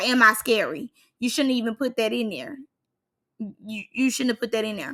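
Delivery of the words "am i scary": normal talking voice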